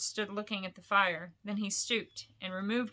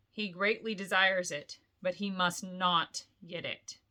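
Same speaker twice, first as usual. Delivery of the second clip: slow, deep. Acted. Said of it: "said slowly in a deep voice".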